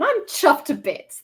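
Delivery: British catchphrase, lightly put on; Mumbo. Streamer showing off a catchphrase, light impression. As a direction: repeat the catchphrase with a bouncy British lilt, falling at the end. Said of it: "That's Mumbo".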